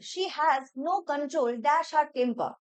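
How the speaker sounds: reading the question out slowly. Shown as a demonstration. Teacher reading the exam sentence slowly. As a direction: spell out each word for the class. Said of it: "প্রিপোজিশন".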